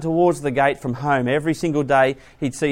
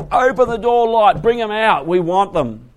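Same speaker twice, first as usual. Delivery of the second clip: loud demanding call through a door; loud, rising mob demand; mob shouting; 6 semitones higher, 5 dB louder than usual. Retold or imitated. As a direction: bang on the door and yell for them.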